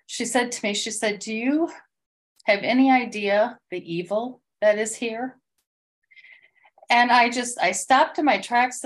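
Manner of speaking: real emotion rising as she retells it; getting emotional. Real, not acted. Telling the group about her coworker, getting choked up. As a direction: voice lifting and thinning, fighting tears. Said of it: "I'm gonna get emotional here".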